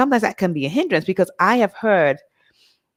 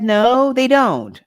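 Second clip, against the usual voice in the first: higher, louder insistent contradiction; retold firm denial; 4 semitones higher, 5 dB louder, much slower than usual. People denying they have an accent, retold as firm denial. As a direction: imitate people flatly refusing to agree.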